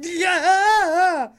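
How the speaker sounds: high, loud crying yell of yeah; exasperated yell at the cop; hammed-up shout. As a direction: wail it like a mock tantrum. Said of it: "I literally was like, this is my response".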